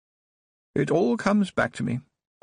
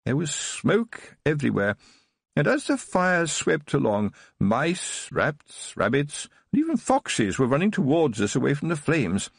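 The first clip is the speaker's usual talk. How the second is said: put-on higher, bright-eyed eager old man reliving childhood; boyish enthusiasm; 4 semitones higher than usual. Old Baron tells Tiffany his childhood memory, eager and boyish. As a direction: tell it like a thrilled boy. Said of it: "as enthusiastic as a boy".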